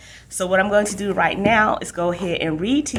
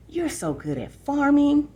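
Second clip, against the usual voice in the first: put-on high coaxing kid voice, slow; pushing little brother; 9 semitones higher than usual. Little brother pushing his sister to stay, high and slow coaxing. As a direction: press her, sweetly insistent. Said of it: "Danny pushed".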